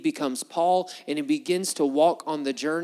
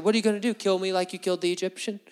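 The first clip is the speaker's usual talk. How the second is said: higher-pitched challenging comeback; mock defiant retort; 4 semitones higher, faster than usual. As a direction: throw the question back, lightly acted. Acts Hebrews' defiant retort.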